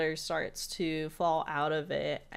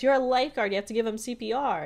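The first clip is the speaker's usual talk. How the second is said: Mabel voice; 5 semitones higher, 4 dB louder, faster than usual. Retold or imitated. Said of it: "she goes".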